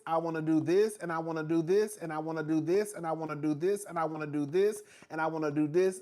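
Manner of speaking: sing-song list, same rising THIS each time; imitating an endless wish list, identical tune repeated; listing wishes. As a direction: rattle off wishes, lifting "this" at each end. Mimics client's endless wish list.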